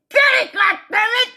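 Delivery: exasperated shout. Real, not acted. Ranting at listeners who don't get it, high exasperated shout. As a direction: shout it like you've run out of patience.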